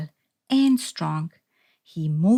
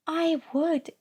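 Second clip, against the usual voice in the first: creaky coral voice; 9 semitones higher than usual. A narrator's reading. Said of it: "creaked a crusty coral".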